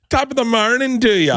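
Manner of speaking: high-pitched hammed-up stage Irish; bad Irish accent. Shown as a demonstration. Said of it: "Can I hear the accent?".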